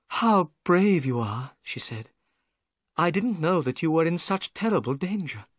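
keen to hear his adventures; gentle young lady. Acted.

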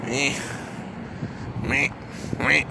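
quacky duck squawk. Pretend. Player mock-quacks like a duck. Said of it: "Now I sound like a duck".

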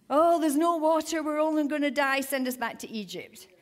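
mock whine of grumbling people; a put-upon, whiny grumble; whiny complaining.

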